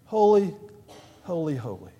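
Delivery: hushed reverence. Shown as a demonstration. Preacher repeats the angels' words to his church, hushed and reverent. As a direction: let the word fall away in awe.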